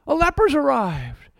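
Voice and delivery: mocking mayor. Pastor mocks a panicked mayor ordering a lockdown, lightly voiced. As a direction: lightly play the flustered mayor. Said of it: "and the mayor says".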